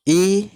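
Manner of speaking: loud, clearly voiced ई as a long ee; ई sounded out loud and long; vowel sound demo. Shown as a demonstration. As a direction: sing out ई as the lesson's sound. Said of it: "का उच्चारण".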